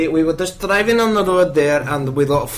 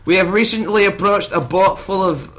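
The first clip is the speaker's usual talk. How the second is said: Star Trek captain. Acted. Star Trek log parody.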